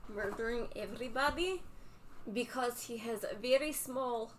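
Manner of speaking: mock Russian accent, broken English; deadpan fake Russian rant. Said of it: "ridiculous Russian accent".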